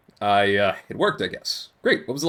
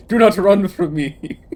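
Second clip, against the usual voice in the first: commanding shout; 5 semitones higher, 6 dB louder, slower than usual. Acted. Tree commands the fleeing player.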